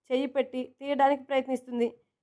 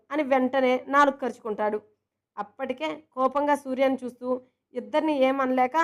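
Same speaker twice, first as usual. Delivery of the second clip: usual speaking voice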